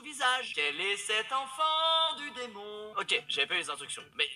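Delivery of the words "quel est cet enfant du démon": slow, hammed-up horror line; mock dramatic. Streamer mock-declaims about the spitting baby, slow and hammed-up.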